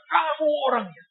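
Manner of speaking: his voice shakes as he points and cries out; trembling cry. Retold or imitated. Old man crying out to the young preacher, trembling. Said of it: "dengan suara bergetar, teriak".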